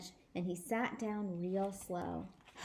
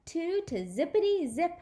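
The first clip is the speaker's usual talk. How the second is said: taunting; 5 semitones higher, 3 dB louder than usual. Acted. May taunting, counting eggs.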